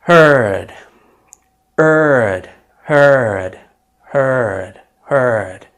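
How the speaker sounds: heard with a long er vowel. Shown as a demonstration. Teacher drilling heard for learners. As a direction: say heard as hurd, er stretched. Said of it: "هذه الكلمة اللي هي يسمع".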